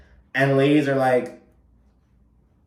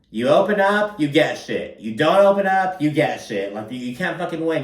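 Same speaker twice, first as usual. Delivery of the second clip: frustrated rant; 4 semitones higher than usual. Retold or imitated. Retelling Uba's complaint about the group, high and exasperated. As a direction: throw up your hands, you can't win.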